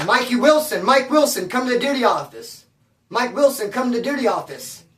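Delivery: lightly mimicked prison PA announcement; loudspeaker call. Guards paging an inmate, mild mock loudspeaker call. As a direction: page him like an officer on the intercom. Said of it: "calling over the loudspeaker".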